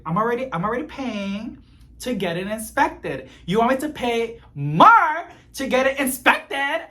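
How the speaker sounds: telling off the mechanic, loud and incredulous; retold yell. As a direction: yell it at him in disbelief. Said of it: "Oh my God, I'm yelling".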